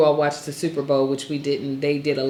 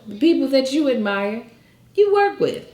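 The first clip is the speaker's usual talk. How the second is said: God's voice; 9 semitones higher, 3 dB louder than usual. Retold or imitated. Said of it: "He's like".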